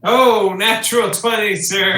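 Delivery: loud, high cheer at a lucky roll; excited exclamation. Real, not acted. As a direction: crow over a natural twenty, high and loud. Player rolls a natural twenty.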